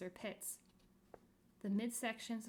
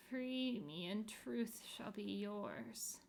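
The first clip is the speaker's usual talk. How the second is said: moaning; much slower than usual. Acted. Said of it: "moaned a wide, squarish face".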